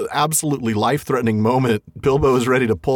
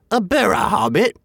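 higher troll voice, startled; 9 semitones higher than usual. Acted. The trolls repeating Bilbo's words, a startled troll voice. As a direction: trolls puzzling over a strange word. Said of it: "said they, a bit startled".

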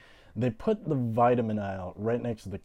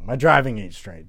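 louder; 8 dB louder than usual. Acted.

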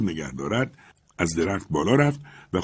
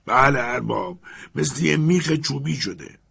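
Jupiter replying; 6 semitones higher than usual. Acted. Jupiter answers from the tree.

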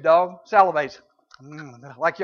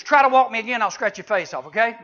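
loud mock threat from the cat; cat's threat; 2 semitones higher, 5 dB louder than usual. Preacher voicing the cat threatening him, loud mock threat. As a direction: snap it like an offended cat.

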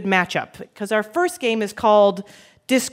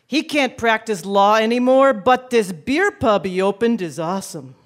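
Brooklyn tough guy read; Brooklyn accent. Acted. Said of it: "read clues in a stereotypical Brooklyn accent".

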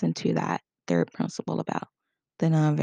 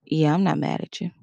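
flat, unconvinced. Shown as a demonstration. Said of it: "If I go".

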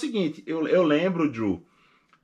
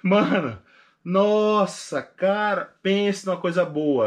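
louder, higher burst of joy; overjoyed; 6 semitones higher, 5 dB louder, much slower than usual. Real, not acted. Telling a friend the case was approved, loud and overjoyed. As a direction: let the good news burst out.

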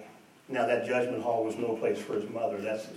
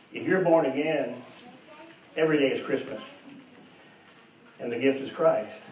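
louder, building sermon cadence; preaching at full force; 2 semitones higher, 3 dB louder than usual. Real, not acted. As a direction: drive the story home to the congregation. Preacher exhorting the congregation.

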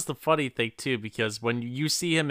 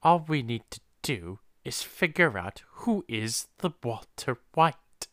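imitating Hank's drawl; 4 dB quieter than usual. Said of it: "drawing out every word / doing it in a weird whisper".

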